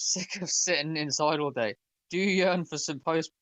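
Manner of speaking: light mock Irish accent for the intro; a half-done Irish lilt on the podcast intro. Host opening the podcast in a mock Irish accent. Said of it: "why am I doing it in the Irish accent?".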